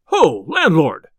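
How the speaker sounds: loud, drawn-out angry hail; angry shout. A narrator's reading. Tinker finds his pouch empty and calls the landlord, raging. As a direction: call out in a rage for the landlord. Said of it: "sprang to his feet in a rage".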